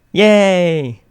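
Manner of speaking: high loud gleeful yay; cheering. Acted. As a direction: cheer big. Radio host cheering.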